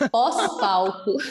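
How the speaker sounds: slow correction with a laugh; stretched out, amused; amused self-correction. Real, not acted. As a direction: laugh at your own slip, drawing out the word. Laughing correction of own slip.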